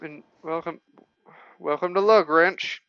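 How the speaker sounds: townsperson with a Texan twang; light Texan accent on a gatekeeper. Acted. Gatekeeper welcomes visitors to town, in a Texan accent. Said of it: "these people need Texan accents".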